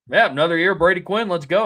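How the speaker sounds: imitated gleeful hype; re-enacted young fan's excitement. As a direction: pump it up like a kid fan. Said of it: "Like, I was like".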